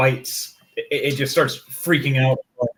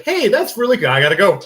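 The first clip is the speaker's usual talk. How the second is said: hasty goodbye; 8 semitones higher, 7 dB louder than usual. Acted. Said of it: "You're like".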